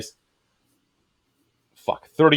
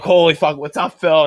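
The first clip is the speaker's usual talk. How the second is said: surprised greeting; 6 semitones higher, 3 dB louder than usual. Retold or imitated.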